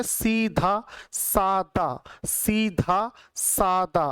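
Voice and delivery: slow teacher's model of सीधा सादा; slow careful demo. Shown as a demonstration. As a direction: say सीधा सादा slowly, sound by sound. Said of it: "सीधा साधा नहीं होता".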